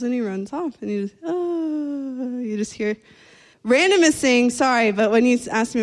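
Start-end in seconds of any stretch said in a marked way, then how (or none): 1.2-1.3 mock yell. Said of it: "And then he just yells".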